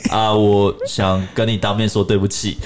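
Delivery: slow, mock-teary apology; mock crying voice. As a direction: imitate his tearful apology, slowed down. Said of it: "然后那哭腔". (学他带哭腔道歉，慢慢地说)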